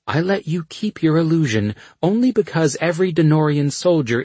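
stern dark sorceress; cold sorceress voice. Acted. Dark Asha accuses the Emperor.

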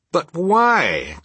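high, protesting cry. A narrator's reading. Nephew questioning his uncle's refusal, a high cry. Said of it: "cried Scrooge's nephew".

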